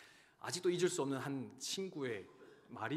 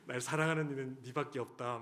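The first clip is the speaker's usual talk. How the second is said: laughing; 4 dB louder than usual. Real, not acted. Touched father laughing.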